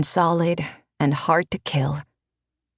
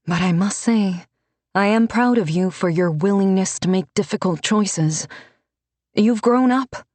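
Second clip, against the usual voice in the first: stern but proud mentor; 3 semitones higher than usual. Acted. Renata lectures Alessa about choices, higher and proud. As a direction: chide first, then let pride show.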